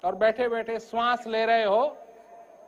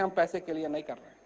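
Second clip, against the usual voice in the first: softer, fast, almost thrown away; quiet quick reply; 7 semitones lower, 9 dB quieter, much faster than usual. Retold or imitated. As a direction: say it low and quick, matter-of-fact. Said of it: "हम कहते हैं". (धीमी आवाज़ में जल्दी से)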